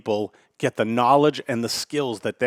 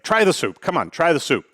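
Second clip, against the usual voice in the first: mock irritation; 5 semitones higher than usual. Old guy pressing the waitress to taste the soup, mock irritated. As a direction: push the soup on her, mock annoyed. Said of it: "So now he starts to get a little irritated".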